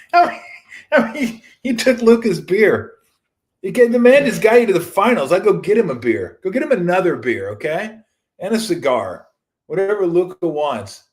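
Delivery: laughing rant. Real, not acted. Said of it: "laughing rant".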